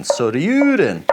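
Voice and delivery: Soryuden drawn out slow, each syllable stretched; slightly Swedish-sounding Soryuden; odd Japanese accent. Shown as a demonstration. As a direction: sound out Soryuden carefully, like practising a new word. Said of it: "such an odd accent".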